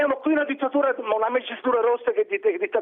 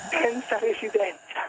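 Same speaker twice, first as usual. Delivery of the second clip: quiet, slow mock sob; fake crying; 4 semitones lower, 4 dB quieter, slower than usual. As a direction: put on a whiny tearful voice. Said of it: "fa finta di piangere".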